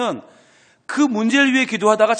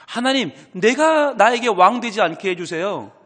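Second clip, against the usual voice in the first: earnest plea; 3 semitones higher, 4 dB louder than usual. Retold or imitated. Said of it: "하는 간절한 기도예요".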